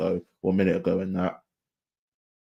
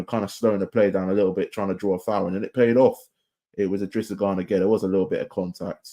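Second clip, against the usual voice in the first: usual speaking voice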